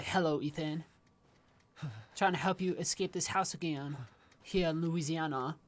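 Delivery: badly imitated Southern woman from Louisiana; poor Louisiana accent. Gamer mimicking Zoe from Resident Evil seven on the phone, poor Louisiana accent. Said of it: "not doing her accent very well".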